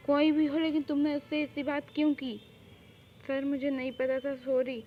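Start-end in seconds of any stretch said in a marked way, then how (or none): 0.1-2.3 raised, indignant demand; acted scolding; angry confrontation. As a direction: cut off the excuse with a loud opening. Boss confronts woman over rudeness.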